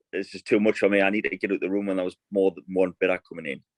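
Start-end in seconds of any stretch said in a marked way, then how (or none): none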